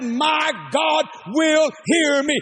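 slow "will", drawn out and declared; stress on will. Retold or imitated. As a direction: proclaim "will" slowly. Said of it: "I said".

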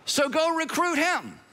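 chuckling, last words high and slowed with a laugh; amused Father. Retold or imitated. God the Father tells the Son to recruit Saul, laughing. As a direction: laugh as you give the order. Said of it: "And God the Father said".

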